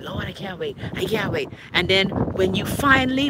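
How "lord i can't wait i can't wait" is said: begging. Retold or imitated. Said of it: "you've been begging".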